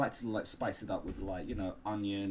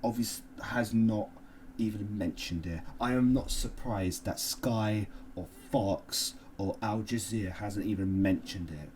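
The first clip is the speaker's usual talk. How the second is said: mock outrage. Mock outraged news-style rant.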